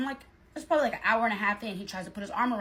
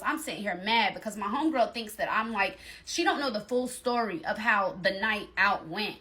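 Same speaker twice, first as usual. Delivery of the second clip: ordinary talk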